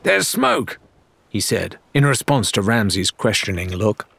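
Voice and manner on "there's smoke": alarmed. A narrator's reading. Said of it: "sudden cry of alarm".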